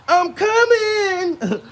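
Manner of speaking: a high, drawn-out moaning cry; mock climax moan. Comedian acting out his own climax, high slow moan.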